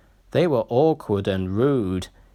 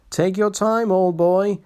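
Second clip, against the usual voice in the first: soothing; 7 semitones higher than usual. A narrator's reading. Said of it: "soothed his driver".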